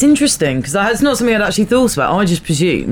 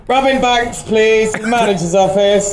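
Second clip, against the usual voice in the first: shop tannoy announcement; 4 semitones higher, slower than usual. Pretend. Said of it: "talking like a train announcer".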